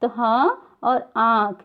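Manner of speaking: हाँ and आँख said slowly through the nose and mouth; chandrabindu nasal demo. Shown as a demonstration. Teacher demonstrates chandrabindu nasal vowel, slow and careful. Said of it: "उच्चारण हम नाक से ले रहे हैं चंद्र बिंदु का".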